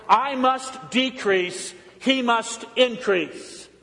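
slow, weighty "I must decrease"; solemn slow quote. Retold or imitated. Preacher quotes John's famous words, slow and solemn. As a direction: lay each word down deliberately. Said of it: "John's famous words".

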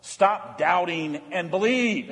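slow, weighty command; slow and deliberate. Shown as a demonstration. Preacher to congregation, slow and deliberate. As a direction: lay each word down slowly. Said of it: "And we can say that on Ash Wednesday".

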